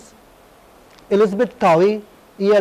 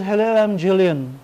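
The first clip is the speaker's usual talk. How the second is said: slow greeting in a mock British accent. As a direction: introduce yourself in a put-on British accent. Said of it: "she has a very British accent".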